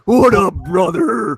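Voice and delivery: high shouted greeting, easing on "brother"; hyped wrestler shout. Pretend. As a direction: echo the wrestler's catchphrase in a high yell. Shouted catchphrase greeting echoed back.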